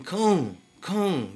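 lightly mocking high-pitched call; imitated call-out. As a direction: mimic men calling someone out. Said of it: "they call him out though".

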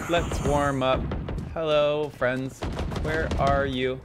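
slow, level, evenly spaced chant; measured monotone, every word placed evenly; put-on monotone character. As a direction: drone each phrase out like a mock robot. Same put-on voice in game.

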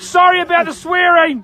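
apology yelled at full excitement; yelling. Real, not acted. Angler apologising to kids watching the stream, yelling. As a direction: shout the apology. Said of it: "why are you yelling".

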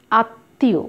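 আত্মীয় as at-tĩyo, doubled t; silent m, nasalised. Shown as a demonstration. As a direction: say আত্মীয় with long t and nasal vowel. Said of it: "অনুচ্চারিত থাকলো মফলাটা এবং নাসিক্য হয়েছে".

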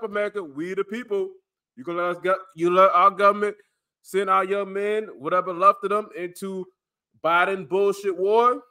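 urgent conspiracy rant to camera; paranoid late night rant. Real, not acted. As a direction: warn them the war is here.

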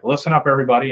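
lightly voiced flight director; a hint of mission-control authority. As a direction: call the room to order, mildly commanding. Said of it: "in his mission control voice".

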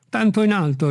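high-pitched voice from up a tree; a hint of a servant calling down; lightly voiced Jupiter. A narrator's reading. Servant answering his master from the treetop, high-pitched.

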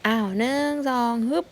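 cheering count. Real, not acted. Mahout cheering the calf to climb onto mother, excited count.

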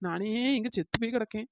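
soft grumble under her breath; muttered aside; muttering. Acted. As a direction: mutter it so she won't hear. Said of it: "என்னடி முணங்கிட்டு கிடக்கா?".

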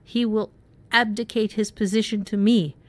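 high ringing proclamation. Acted. Sylph claiming the pond, high ringing. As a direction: ring it out like a fairy queen. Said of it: "Sylph's voice rang".

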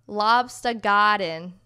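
slow, put-on Boston accent. Reading a kids' book title aloud, hammed Boston accent. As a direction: read the title in mock Boston. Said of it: "with heavy Boston accents".

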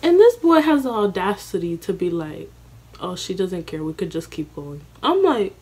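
high, loud, fast panicked babble; frantic girl rushing to leave. Retold or imitated. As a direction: scramble to get out in a hurry. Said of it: "I'm sitting here like".

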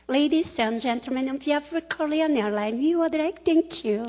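very slow, drawn-out in-flight English announcement; airline announcement impression. Speaker imitating a flight attendant greeting passengers, slow announcer voice. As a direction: stretch every word like a cabin crew broadcast. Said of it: "어떻게 나오냐면 이렇게 나옵니다".

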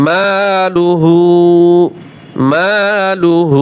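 drawn-out malu-hu; slow recitation. Shown as a demonstration. Teacher models the word for students. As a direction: stretch each syllable slowly. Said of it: "এক আলিফ টান হবে।".

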